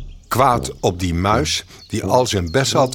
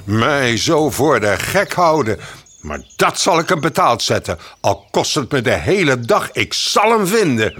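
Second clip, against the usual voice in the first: a mildly hammed-up furious bear; angry bear; 4 semitones higher than usual. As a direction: vow revenge through clenched anger. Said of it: "liet een woeste brul horen".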